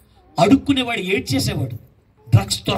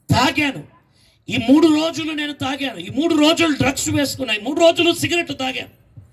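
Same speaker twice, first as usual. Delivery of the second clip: put-on raised, pleading voice of a broken young man; crying prayer; 5 semitones higher than usual. Addict confessing to Jesus at the altar, pleading and tearful. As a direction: beg Jesus for forgiveness, near tears. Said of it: "అంటూ ఏడవడం ప్రారంభించు".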